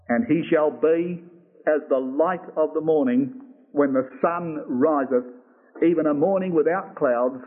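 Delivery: measured, solemn Bible reading with long pauses; scripture reading. Acted. Preacher reads David's last words to the congregation, solemn and measured. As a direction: read it out phrase by phrase as holy text.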